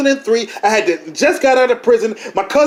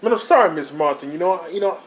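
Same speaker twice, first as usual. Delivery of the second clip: soft apology; 7 semitones lower, 5 dB quieter than usual. Acted. Apologising to Miss Martha.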